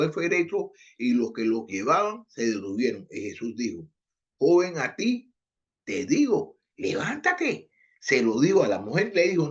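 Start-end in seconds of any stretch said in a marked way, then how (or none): 4.4-7.7 commanding. Retold or imitated. Acts out Jesus commanding the dead son.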